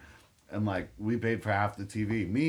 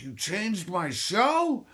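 mock angry brother; 7 semitones higher, much slower than usual. Angry brother voiced waking up.

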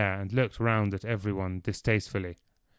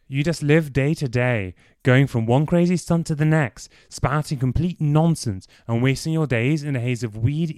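angry rant; 4 semitones higher, 5 dB louder than usual. Acted. Clive rounds on Dorian angrily.

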